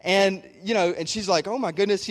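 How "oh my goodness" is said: higher-pitched imitation of a starstruck woman; a touch of retold freak-out; mock freaking out. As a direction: lightly act out being starstruck. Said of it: "she's freaking out".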